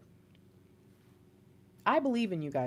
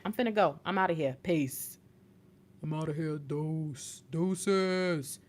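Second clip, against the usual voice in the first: breezy exit; 6 semitones lower, 5 dB quieter, slower than usual. Retold or imitated. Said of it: "and then we also say".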